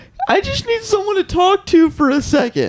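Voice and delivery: play-acted, very high, loud wailing and sobbing. Retelling a dream where a classmate begs to talk: imitating someone loudly crying. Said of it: "loudly crying and being like".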